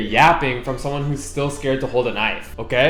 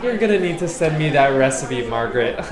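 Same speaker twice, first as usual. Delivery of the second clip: white aunt impression; 2 semitones higher than usual. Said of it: "That's my best white aunt impression".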